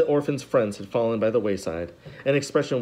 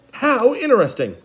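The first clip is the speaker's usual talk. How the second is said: higher, louder delight; lightly voiced interest; 12 semitones higher, 6 dB louder than usual. A narrator's reading. Strauss to the children, brightly interested. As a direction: perk up with interest. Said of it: "Strauss responding".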